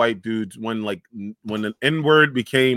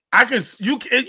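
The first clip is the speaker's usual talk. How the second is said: usual speaking voice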